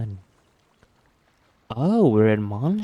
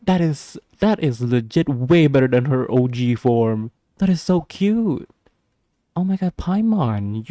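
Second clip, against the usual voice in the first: gushing; 2 semitones higher, 4 dB louder than usual. Real, not acted. Gushing over a cute character design.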